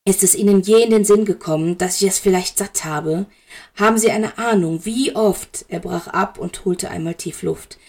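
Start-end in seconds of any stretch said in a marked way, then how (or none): 0.0-5.6 exasperated. Acted. Severus, fed up, confronts Dumbledore.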